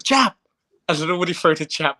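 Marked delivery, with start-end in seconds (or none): 0.0-0.3 sharp high shout of a corner coach; shouted coaching call. Retold or imitated. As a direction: bark the jab call from the corner. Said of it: "so he was shouting".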